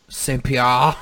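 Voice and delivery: attempted half-French pronunciation; lightly put-on French accent. Shown as a demonstration. Showing how far his French goes, half French accent. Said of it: "half French with the".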